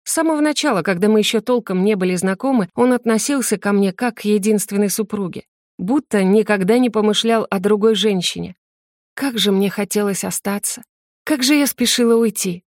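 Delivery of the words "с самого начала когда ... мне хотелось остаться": usual speaking voice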